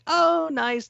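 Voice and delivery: very high, falsely sweet voice; sugary nice act. Retold or imitated. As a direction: imitate a villain's sweet way of speaking. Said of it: "the way she speaks".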